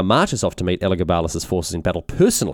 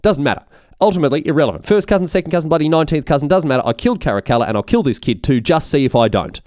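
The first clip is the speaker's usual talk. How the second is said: raised, emphatic mock rant; very unhappy; 5 semitones higher than usual. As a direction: imitate an irate emperor brushing details aside and vowing revenge. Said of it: "He's very unhappy when he hears".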